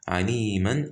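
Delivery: "Aliman" with the n kept on the end; continuing form. Shown as a demonstration. Teacher showing the word mid-verse, n sounded. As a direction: keep the -an ending on "Aliman". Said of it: "we don't say alima".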